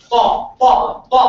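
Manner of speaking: ta said flat and even, no echo. Shown as a demonstration. Teacher contrasting the flat ta for students. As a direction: keep each ta flat and even. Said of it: "This ta is flat".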